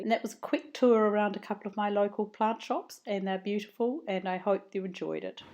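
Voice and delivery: croaky, froggy voice from a sore throat; hoarse voice. Real, not acted. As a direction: talk through a croaky throat. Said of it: "I sound like a frog".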